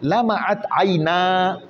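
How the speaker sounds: very slow, each word drawn out; slow example reading. Shown as a demonstration. Teacher reading an example to students, very slow and deliberate. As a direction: dictate the phrase slowly to the class. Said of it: "teacher reads example sentence".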